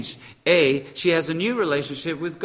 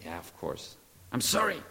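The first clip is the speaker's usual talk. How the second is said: soft reply; 7 semitones lower, 11 dB quieter than usual. Retold or imitated. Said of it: "And then she says".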